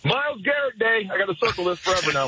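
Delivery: real, lightly giddy excitement; giddy about the big news. Real, not acted. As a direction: let a little giddy delight lift the voice. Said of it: "hear the giddiness in his voice".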